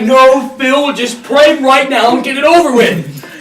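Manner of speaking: loud, exasperated push; impatient urging. Retold or imitated. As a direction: imitate telling someone to hurry up. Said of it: "And I was like".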